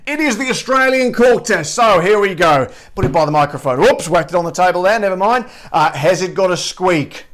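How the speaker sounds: put-on a light Australian accent held through the chat. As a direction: talk like a cheerful Aussie host, lightly done. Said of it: "I'll drop the Australian accent for a second".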